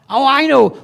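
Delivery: high, lifted flash of inspiration; retold eureka moment; sudden idea. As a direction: act out hitting on the answer. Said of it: "suddenly I thought".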